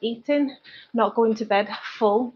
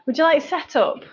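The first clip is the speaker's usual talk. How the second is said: higher-pitched imitated Scottish woman; Scottish accent; 6 semitones higher than usual. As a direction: lightly mimic a Scottish barista's accent. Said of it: "some Scottish woman, she got me with her accent".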